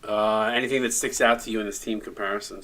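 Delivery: yawning. Real, not acted. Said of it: "Sorry if I keep yawning".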